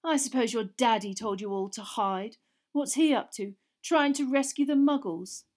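Malfoy goading Ron; mocking sneer. A narrator's reading. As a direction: needle him about his dad.

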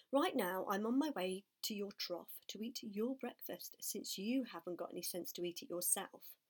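bitter resentment. Acted. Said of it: "replied the rat sourly".

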